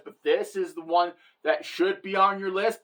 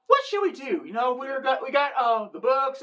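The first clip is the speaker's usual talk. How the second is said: higher-pitched mock Italian accent; hammy amateur Italian accent; bad Italian accent; 3 semitones higher than usual. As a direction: put on a poor Italian accent. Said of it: "a very bad Italian accent".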